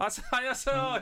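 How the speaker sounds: lively, high, loud comedian-like DJ voice.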